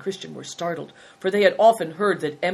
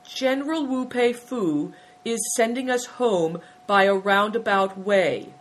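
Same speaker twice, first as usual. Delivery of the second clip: higher, halting, lightly acted reply; stammered answer; 5 semitones higher, 5 dB louder than usual. A narrator's reading. Frightened boy answers the abbot at last, stammering mildly. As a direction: feel your way through the excuse. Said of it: "he stammered at last".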